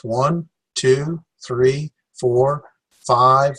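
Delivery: tag counting. Shown as a demonstration. Counting syllables aloud for class.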